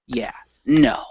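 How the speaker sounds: voiceless whispered aside; unvoiced quick whisper. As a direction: breathe the words. In-character aside.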